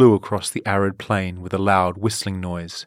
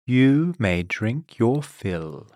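slow, tempting offer; 4 semitones higher, much slower than usual. Acted. Silk Tongue tempting thirsty Daisy, slow and sly. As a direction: dangle it slowly before her. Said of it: "Silk Tongue offered".

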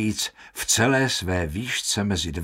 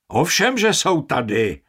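high, louder angry outburst; roared; 6 semitones higher, 4 dB louder than usual. Acted. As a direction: bellow it back at him. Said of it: "zařval Baldini". (rozzlobené zařvání)

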